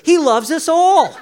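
laughing at his own joke. Real, not acted. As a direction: grin through a chuckle as you say it. Joke about gingers, laughing.

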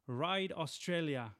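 a not-so-strong Australian accent. Shown as a demonstration. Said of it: "That's a great accent".

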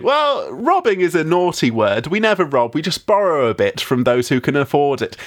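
put-on trustworthy English accent; Robin Hood. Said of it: "that trustworthy English accent".

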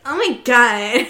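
slow, loud mocking drawl; making fun. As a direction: mimic her mockingly, dragged out. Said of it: "He starts making fun of her".

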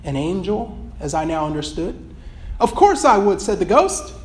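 steady storytelling read of a passage; earnest read-aloud of a book excerpt. Acted.

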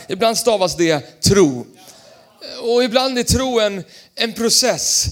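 slow, loud punchline; emphatic shout. Real, not acted. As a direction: hammer the last words home. Preacher's climax line. (slow, loud betoning)

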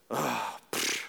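mock scoff. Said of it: "Looks at me and she goes".

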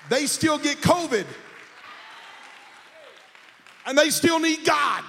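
rising, emphatic pulpit declaration; building preaching. Real, not acted. Preacher tells congregation the wealthy still need God, building preaching.

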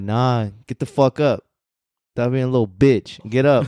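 mock tough-love, order him up; tough inner voice. Inner voice refusing to let him quit, stern push. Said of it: "he's talking about that voice that's like".

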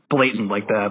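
hushed unvoiced aside; whispering. Real, not acted. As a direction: drop to a whisper. Aside whispered mid-conversation.

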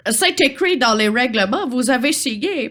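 put-on lightly British-accented officious troll. Troll reads the signed rules, mild British accent. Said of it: "charmant accent britannique".

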